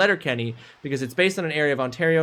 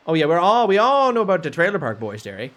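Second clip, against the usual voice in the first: put-on East Coast Canadian; hammed-up Canadian accent. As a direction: lay on a Maritime accent. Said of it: "I'm doing my Canadian accent right now".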